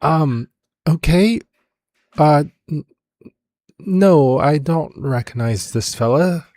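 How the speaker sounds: high, halting character voice; Silas, hesitant. Acted. Game master voices Silas replying.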